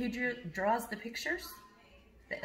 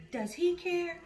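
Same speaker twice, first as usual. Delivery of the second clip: mock question; 11 semitones higher than usual. Teacher asks kids rhetorically.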